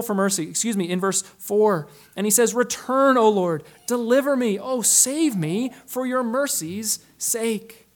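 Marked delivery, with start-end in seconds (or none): 2.5-7.9 higher, louder plea, slowing at save me; strong appeal. Retold or imitated. Preacher voicing David's desperate appeal, raised. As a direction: summon strength and cry out to God. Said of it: "musters the strength for another appeal".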